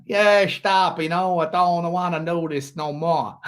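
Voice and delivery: put-on slow, drawn-out go at a Dutch accent; joking Dutch accent that lands near Al Capone; lightly hammed-up, botched Dutch accent; attempted Dutch accent. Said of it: "work on my Dutch accent".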